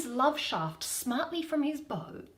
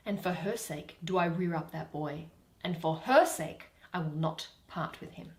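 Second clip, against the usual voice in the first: a touch softer and lower, steady and grave; low quiet vow; 7 semitones lower, 5 dB quieter than usual. Acted. Titania tells Oberon why she keeps the boy, quiet and low. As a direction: murmur the vow for the dead mother's sake.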